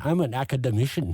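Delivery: mimicking a pretentious wrong stress on "academician"; misplaced stress. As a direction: lean on the wrong syllable of "academician", mockingly. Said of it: "with the accent on the wrong syllable".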